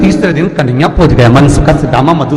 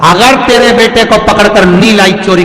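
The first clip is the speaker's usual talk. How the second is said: angry neighbour's threat. Acted. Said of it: "वो काकी निकलती निकलती बोल दी".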